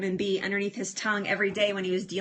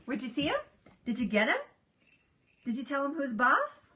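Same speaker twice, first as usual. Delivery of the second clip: talking to pet; 4 semitones higher, 7 dB quieter, faster than usual. Real, not acted. Owner asking the dog about a puppy outside, soft cooing. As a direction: coo playful questions, softly and higher at the ends.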